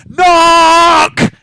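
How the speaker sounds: high, loud shout; yell. Acted. Gang girl yelling knock at the scholar's story. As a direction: bark it out. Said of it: "yells Spring".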